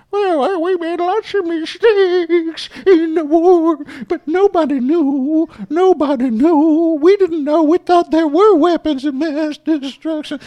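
very high, slow, mocking falsetto of an official making excuses; mocking Condoleezza. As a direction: squeak out the excuses slowly, sneering.

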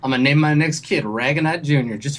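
lightly voiced folksy dealer, pleased; a hint of flattering salesman; country salesman. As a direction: savor it like a good old boy. Plays the salesman.

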